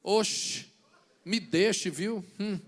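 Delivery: put-on light Bahian accent, dismissive. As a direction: brush it off with a hint of Bahian. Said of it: "Em baianês é". (sotaque baiano leve e desdenhoso)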